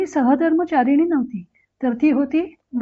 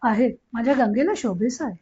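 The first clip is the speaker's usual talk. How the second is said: softer, lower, pleased murmur to herself; aunt quietly approving of the son-in-law; contented aside; 3 semitones lower, 4 dB quieter than usual. Acted. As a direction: savour it quietly, satisfied. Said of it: "मनातल्या मनात समाधानानं म्हणाल्या".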